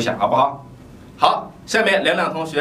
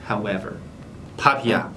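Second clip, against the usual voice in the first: normal talking voice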